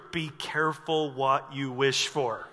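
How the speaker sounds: slow, low warning; ominous warning. Retold or imitated. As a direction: let the threat hang. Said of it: "He's just like".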